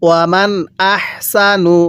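"ওয়ামান" with its n sounded distinctly before "আহসানু"; clear noon sakin. Shown as a demonstration. Teacher shows students the clear noon, "ওয়ামান" n kept distinct. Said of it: "এরপরে পড়ুন".

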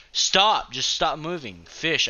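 high, loud shout of frustration; frustrated yell. Real, not acted. Gamer failing to catch fish, frustrated yell. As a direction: bark at it to hold still. Fish keeps moving away.

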